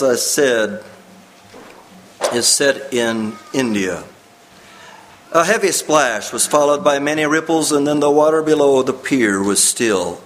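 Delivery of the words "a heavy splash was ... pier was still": story narration. Acted. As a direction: read the story like a preacher drawing listeners in. Reads the story aloud.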